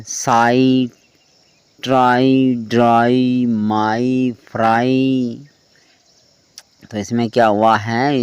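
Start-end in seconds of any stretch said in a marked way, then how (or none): 0.0-5.5 साई, ट्राई, ड्राई, माई, फ्राई each ending in a drawn-out "aai"; final Y as long "eye". Shown as a demonstration. Teacher showing Y gives आई sound, drawn-out "eye" endings. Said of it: "आई की आवाज़ दे रहा".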